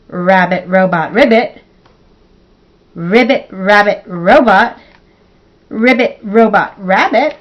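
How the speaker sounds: loud, deliberate word-by-word recital; tongue-twister attempt. Shown as a demonstration. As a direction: say each look-alike word carefully without tripping. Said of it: "without getting your tongue twisted".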